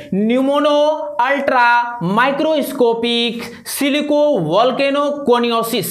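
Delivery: slow, careful pronunciation; teacher spelling out the word slowly for the class; slow word demo. Shown as a demonstration. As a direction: say the long word slowly, part by part. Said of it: "एक बार सुना देता हूं".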